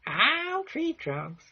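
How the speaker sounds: put-on very high, slow Alabama accent; Tree Trunks. Vlogger voicing Mister Pig's girlfriend, high slow Southern accent. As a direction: squeak out a drawn-out Deep South accent. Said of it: "this is a deep Southern Alabama accent".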